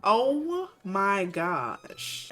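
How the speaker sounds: long, drawn-out oh my gosh; exasperated oh my gosh. Real, not acted. Player seeing everyone crowded in the room, drawn out. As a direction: stretch it out in disbelief.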